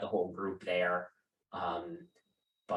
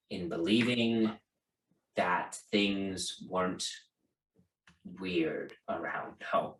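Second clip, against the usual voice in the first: stern father relenting; 4 semitones lower than usual. Acted. Father speaks privately to daughter.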